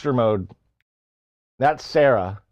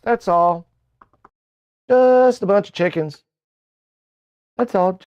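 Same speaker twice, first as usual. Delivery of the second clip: hyped mode; 6 semitones higher than usual. Acted. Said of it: "I was still in that mode".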